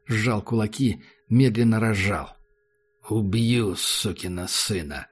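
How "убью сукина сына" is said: deadpan cold threat, slowing down; flat, expressionless. Acted. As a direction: say it level, no emotion at all. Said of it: "сказал он ровно, без выражения".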